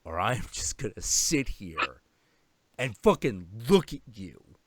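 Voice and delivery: stare them down in words; menacing cat. Retold or imitated. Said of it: "Now he's sort of like".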